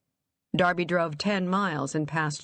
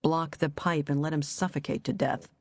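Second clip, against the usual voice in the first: cold alien voice. Acted. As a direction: murmur it like a temptation. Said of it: "The cold, alien voice".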